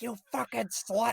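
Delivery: slow, high-pitched mock rage; Chucky snapping. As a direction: drag out the insult like an enraged doll. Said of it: "The first moment where Chucky snaps".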